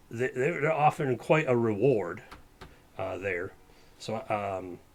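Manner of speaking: lightly voiced Western sheriff, fed up; a hint of a grumbling frontier sheriff; Western Pogli voice. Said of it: "it's my Pogli voice".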